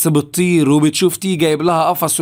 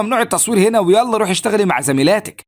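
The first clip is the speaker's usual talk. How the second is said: higher-pitched mild mock scolding; understated telling-off, pitched up; retold scolding; 6 semitones higher than usual. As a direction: lightly act out a supervisor telling a worker off. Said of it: "بتزعق لها".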